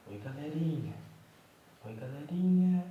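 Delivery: high, loud sing-song hello; high baby greeting. Pretend. Father voicing the baby's hello, high and bright. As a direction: pitch it up like the baby saying hi.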